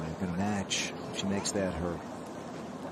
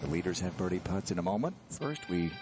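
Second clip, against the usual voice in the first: ad read. Acted. Promo read over music.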